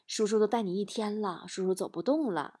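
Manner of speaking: soft, understated gentle excuse; gently tactful. Acted. Tired uncle gently refuses his nephew, tactful. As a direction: let the refusal down softly. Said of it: "委婉地说".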